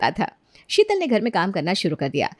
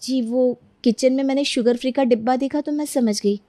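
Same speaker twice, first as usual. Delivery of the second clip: higher-pitched, careful meek voice; timid servant explaining; 4 semitones higher than usual. Acted. Maid explaining sugar-free tea to mistress, timid. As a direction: justify yourself politely.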